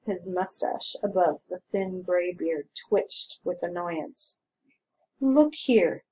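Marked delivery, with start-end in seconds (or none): 5.2-6.0 clipped and tense, louder; tight. A narrator's reading. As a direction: hold back annoyance. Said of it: "he said tightly".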